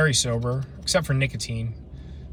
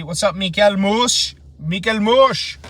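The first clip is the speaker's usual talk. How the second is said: higher, louder, drawn-out name greeting; playful shout-out; 6 semitones higher, 5 dB louder, slower than usual. Pretend. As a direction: hail a buddy with a hammed-up, stretched name. Calling out a viewer's name playfully.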